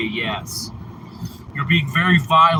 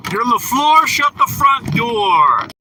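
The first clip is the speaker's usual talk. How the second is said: loud, higher, drawn out shut the front door; mock-excited exclamation; excited exclaim; 6 semitones higher, 4 dB louder than usual. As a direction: shout it in delighted disbelief.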